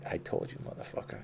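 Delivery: voiceless, menacing cat voice; voicing the cat. The angry rescue cat warns him off, menacing whisper. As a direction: hiss it like a fed-up cat. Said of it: "he'd be like".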